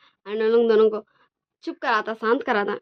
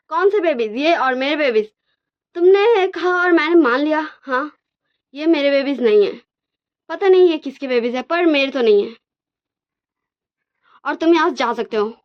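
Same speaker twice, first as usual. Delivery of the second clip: angry denial; 4 semitones higher, 5 dB louder than usual. Acted. Wang Ji denies the babies angrily.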